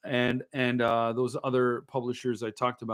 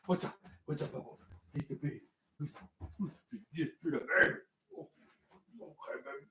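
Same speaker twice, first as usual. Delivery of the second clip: cooing whisper; 13 dB quieter, faster than usual. Real, not acted. Cooing softly to the dog.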